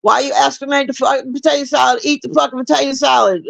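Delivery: woman across the table snapping at Steve Urkel, mock furious; freaking out. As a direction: shriek it like an offended aunt at the table. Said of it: "she's freaking out".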